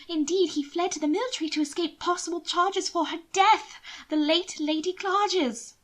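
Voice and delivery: a worried sister pleading. Acted. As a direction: press the danger on him. Mina revealing scandal.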